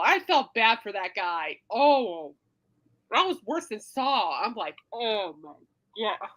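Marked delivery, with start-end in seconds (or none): 4.9-6.3 quiet slow groan of dismay. Retold or imitated. Retelling nausea reaction.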